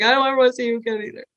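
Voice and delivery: rattled-off reply, very fast; retold quick retort. Young woman answering the sheriff's send-off, retold quick retort. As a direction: toss the retort straight back, rushed.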